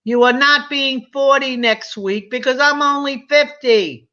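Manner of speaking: mother joking to her son about his age; mock disbelief. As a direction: tease him that it can't be. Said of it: "And I told him".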